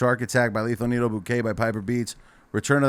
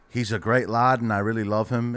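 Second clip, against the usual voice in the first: A singer slipping into Irish; accidental Irish accent. Retold or imitated. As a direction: quote him in an accidental Irish brogue. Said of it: "now I'm doing Irish for some reason".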